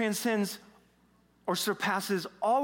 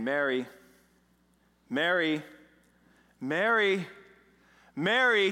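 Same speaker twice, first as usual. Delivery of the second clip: calling, building; slower than usual. Retold or imitated. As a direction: call her name, rising each time. Edgar calls Mary, growing louder.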